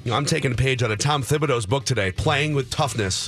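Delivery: hoarse, rough voice; talking through a worn-out throat; gravelly voice. Real, not acted. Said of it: "Gravelly voice".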